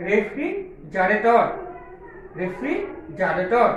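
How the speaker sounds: রেফ্রিজারেটর said very slowly, syllable by syllable; slow broken-up pronunciation. Shown as a demonstration. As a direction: stretch out রেফ্রিজারেটর into slow separate syllables for pupils. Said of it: "ভেঙে ভেঙে আস্তে আস্তে উচ্চারণ করবে".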